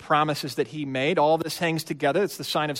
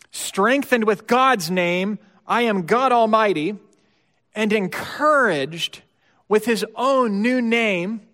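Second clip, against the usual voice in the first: loud, slow climactic proclamation; full-force preaching; 5 semitones higher, 6 dB louder, slower than usual. Real, not acted. Preacher driving home the point to the congregation, loud and slow. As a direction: drag each word out and ring it loud.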